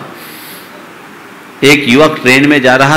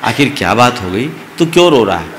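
coaxing; 2 semitones lower, 5 dB quieter, faster than usual. Acted. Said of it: "पुचकार कर पूछा".

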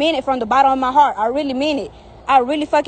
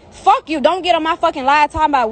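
sudden angry outburst. Real, not acted. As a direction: spit it out, furious. Angry rant at ex on live.

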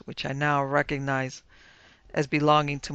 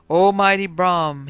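loud, drawn-out invocation, pitched up; solemn incantation; 4 semitones higher, 10 dB louder, slower than usual. A narrator's reading. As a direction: call upon a spirit, slow and grand. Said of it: "he whispered in the darkness".

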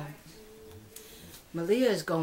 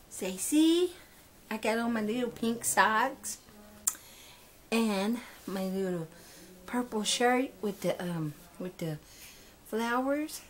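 high doll voice; 5 semitones higher than usual. Pretend. Mom voicing doll showing outfit.

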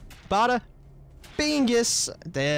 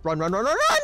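being chased; 6 semitones higher, 4 dB louder than usual. Real, not acted.

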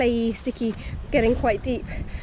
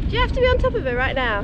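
teasing scold; 5 semitones higher, faster than usual. Real, not acted. Scolding pony mid-roll.

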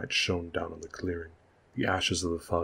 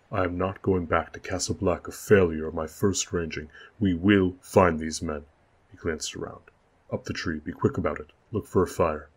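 stubborn insistence; 5 dB louder than usual. Acted. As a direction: refuse to go back a failure. Lord insists, gives orders.

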